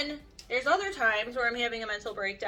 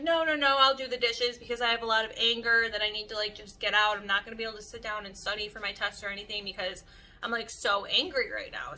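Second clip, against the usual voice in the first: a touch of retold anger; angry insistence; faster than usual. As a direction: insist fast that you'll do the dishes. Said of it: "gosh, I'm like".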